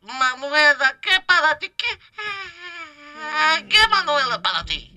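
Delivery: put-on light Castilian Spanish accent, lisped c and z; mocking a singer speaking with a Spanish accent; playful Spain Spanish accent put on lightly. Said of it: "se le fue el acento".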